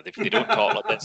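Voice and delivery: hammed-up high-pitched objection; squeaky protest. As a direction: squeal it in comic disbelief. Retelling his protesting first reaction.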